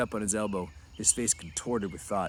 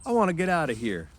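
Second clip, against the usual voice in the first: put-on much higher, louder, upset childlike plea; a scared man begging to leave; Lenny crying out; 11 semitones higher, 5 dB louder than usual. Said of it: "Lenny cried out suddenly".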